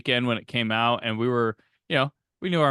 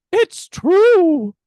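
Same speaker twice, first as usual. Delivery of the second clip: much higher, louder squeaky goblin imitation; 11 dB louder than usual. Host imitating a little goblin minion, loud squeaky. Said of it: "little goblins goes".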